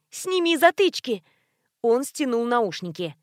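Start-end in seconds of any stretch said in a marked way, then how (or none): 0.1-1.2 shouting. A narrator's reading. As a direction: make him take them off. Shouting at deafened neighbor.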